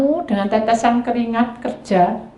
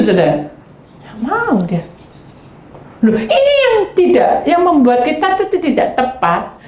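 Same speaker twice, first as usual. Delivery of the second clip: ordinary talk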